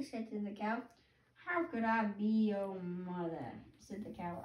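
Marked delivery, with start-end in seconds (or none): 1.4-3.5 slow, lightly put-on cow voice; a cow puzzling it out slowly. Cow answering the baby bird, slow cow voice.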